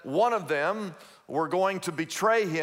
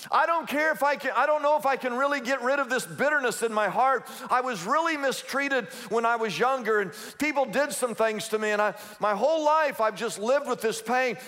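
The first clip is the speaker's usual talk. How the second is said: hurting believer; 4 semitones higher than usual. Retold or imitated. Voicing a bitter listener.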